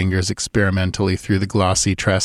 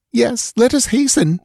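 higher voice, urgent near-hysterical plea; begging girl. A narrator's reading. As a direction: beg him to hurry, pitched up. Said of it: "begged the girl, almost hysterical again".

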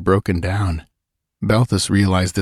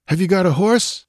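raised, quick asking; urgent question; 11 semitones higher than usual. A narrator's reading. Balthus asking the woman for a horse, urgent. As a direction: ask it sharply.

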